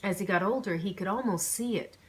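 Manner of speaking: measured, even storytelling read; story narration. Acted. Author reading her novel's chapter aloud. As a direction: read the chapter to your listeners.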